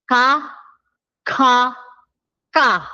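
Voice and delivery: first Ka aspirated, then ka tense, then ka plain; three Korean k sounds. Shown as a demonstration. Teacher repeating the comparison of three sounds, contrasting k. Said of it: "Comparison nga ng tatlo".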